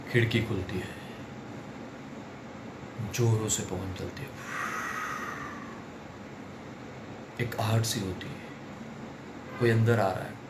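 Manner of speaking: low hushed horror narration; spooky. Retold or imitated. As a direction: build suspense in a hushed low voice. Spooky film scene retold. (डरावनी धीमी कहानी)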